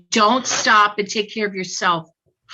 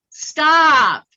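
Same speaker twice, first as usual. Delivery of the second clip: a mock yell of the father's stop, louder and higher; relayed yell; 6 semitones higher, 8 dB louder than usual. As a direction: shout the spirit father's stop, half-hearted. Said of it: "So now he's yelling".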